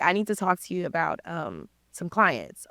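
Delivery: hint at a deep-voiced man on the phone; super deep voice. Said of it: "Guy's super deep voice".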